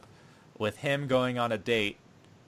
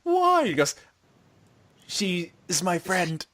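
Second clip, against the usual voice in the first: slow, very high melodramatic voice; hammed-up tearful squeak; high mock pleading; 6 semitones higher than usual. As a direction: drag it out like an anime death. Melodramatic dying exchange.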